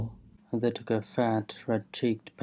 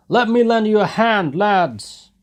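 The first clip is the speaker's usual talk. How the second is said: put-on louder, much higher young voice; eager cry; 11 semitones higher, 8 dB louder than usual. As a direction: call out keen to join in. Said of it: "a young fellow in the crowd cried".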